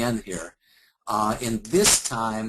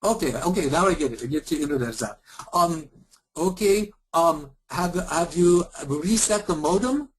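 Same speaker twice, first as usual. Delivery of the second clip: a hammed-up Indian call-centre accent, high; playing a hard-to-follow support agent with a put-on Indian accent; mock Indian accent, higher; bad Indian accent; 4 semitones higher than usual. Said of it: "really bad Indian and Eastern European accent".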